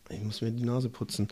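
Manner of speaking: mit verstopfter Nase sprechen; erkältet, Nase zu; verschnupft. Real, not acted. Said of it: "ich hab Schnupfen aktuell". (verschnupfte Stimme)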